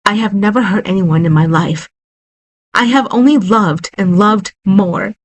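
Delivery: pleading through sobs; sobbing wife insisting she is innocent; sobbing reply. A narrator's reading. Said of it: "Tina sobbed".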